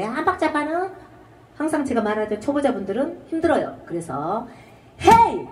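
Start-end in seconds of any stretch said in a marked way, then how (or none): 5.0-5.5 sharp loud "헤이!" to time the breath; breath cue "hey". Shown as a demonstration. Teacher's loud count-in call before the line. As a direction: call out "헤이!" to kick the beat in. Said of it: "이런 느낌으로 하시면 되겠습니다".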